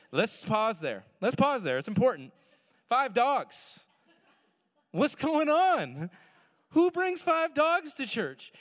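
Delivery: high, loud, slowing disbelief; incredulous outburst. Real, not acted. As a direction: stretch out the disbelief at five dogs. Mock-outraged emphasis to crowd.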